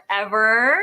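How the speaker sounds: "Ever" said firmly, rising at the end; sassy, lifted "Ever"; attitude. Shown as a demonstration.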